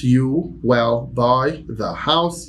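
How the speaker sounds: slow, level repeat; slow plain repetition. Shown as a demonstration. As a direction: say it again slowly.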